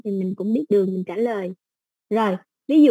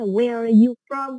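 slow example question; 3 dB louder, slower than usual. Shown as a demonstration. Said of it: "Ví dụ như trong bài mình ta hỏi là".

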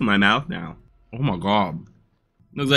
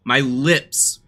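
talking with a burning mouth; 2 semitones higher than usual. Real, not acted. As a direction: speak around a mouth on fire. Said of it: "my mouth is still on fire".

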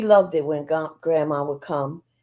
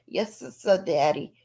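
stuttering; 3 semitones lower, 5 dB quieter than usual. Retold or imitated. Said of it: "Bobby would stutter".

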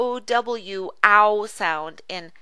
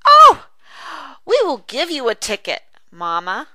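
put-on excited child; 3 semitones higher, 8 dB louder than usual. Dialogue, voiced character.

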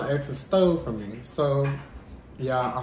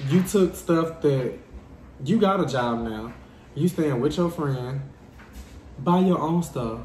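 slow exasperated scolding. Real, not acted. Venting to viewers about the ex who stole, slow exasperation. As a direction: drag each word out, fed up.

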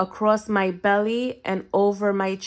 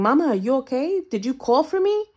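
higher, a hint of a worried father; father's worried voice; 4 semitones higher, faster than usual. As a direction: lightly voice dad calling from the doorway.

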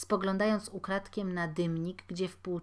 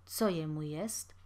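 pale repeat, hushed; 3 semitones lower than usual. Acted. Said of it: "powtórzył wybladły gospodarz".

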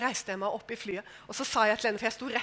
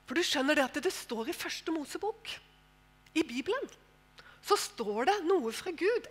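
calm advice; 3 semitones higher, 4 dB quieter than usual. Retold or imitated. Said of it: "helt rolig".

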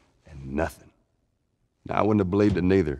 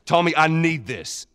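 urgent plea; 9 semitones higher, 4 dB louder than usual. Acted. Pleading with brother for help.

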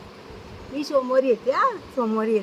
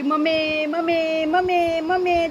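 parrot calling mummy; 4 semitones higher, slower than usual. Retold or imitated. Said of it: "सकाळी उठला की".

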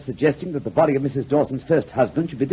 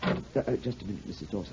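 hushed urgent warning; 4 semitones lower, 12 dB quieter, faster than usual. Acted. Stopping her before she enters.

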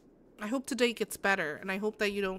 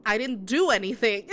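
indignant protest; 7 dB louder than usual. Retold or imitated. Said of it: "I'm like".

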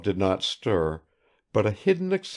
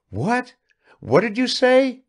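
high, eager burst of surprise; sharply raised, eager question; eager interjection; 7 dB louder than usual. A narrator's reading. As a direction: jump in eagerly, pitch leaping up.

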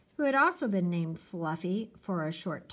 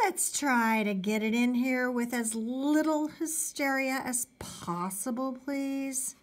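lightly voiced, higher-pitched mom; exasperated mother; 5 semitones higher than usual. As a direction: plead for a little less hysteria. Mother pleading for less hysteria.

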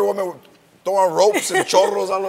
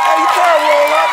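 mock scolding of a toddler; 7 semitones higher, 7 dB louder than usual. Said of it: "I like that she said".

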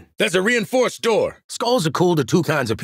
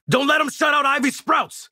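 high, urgent battlefield order; urgent combat shout; 5 semitones higher than usual. Acted. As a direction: call it out over a firefight.

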